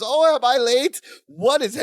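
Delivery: high-pitched, lightly acted bewilderment; confused character. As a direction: play someone lost and asking around. Acting out disoriented, stumbling Balky.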